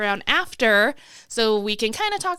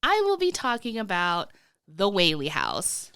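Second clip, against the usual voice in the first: congested, sick voice; talking through a head cold; stuffy nose; slower than usual. Real, not acted. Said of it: "if I sound a little weird, that's because I'm super sick".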